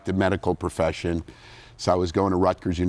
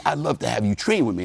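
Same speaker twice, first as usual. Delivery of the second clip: higher-pitched put-on Southern accent; Lee Haney's Southern accent; 5 semitones higher than usual. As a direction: invite them in an imitated Southern accent. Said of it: "I had this Southern accent".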